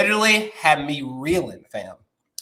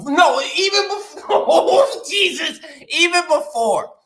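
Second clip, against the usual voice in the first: slow, laughing no, even before; giggling through the correction; real laughter; laughing high; 11 semitones higher, 3 dB louder than usual. Real, not acted.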